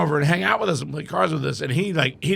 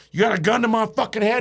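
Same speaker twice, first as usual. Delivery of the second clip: defiant challenge; 6 semitones higher, faster than usual. Retold or imitated. Dave challenges the gunman.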